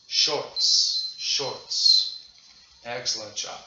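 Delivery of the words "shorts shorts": whispered cue. Shown as a demonstration.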